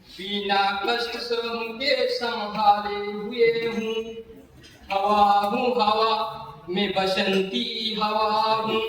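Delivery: slow, chanted verse with long vowels; stretched-out, rhythmic poetry chant; poem recitation. Acted. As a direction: recite in measured, singsong lines on an even pitch. Recites the announced poem aloud.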